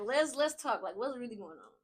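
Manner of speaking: soft, caring invitation to talk; gentle correction. Acted. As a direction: ease into a quiet heart-to-heart. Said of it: "It's always very gentle, though".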